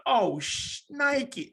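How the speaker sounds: high, slow, drawn-out yelp of pain; half-joking high wail of pain; mock pained yelp. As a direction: squeal it out like a man just hit. Retold reaction after being hit.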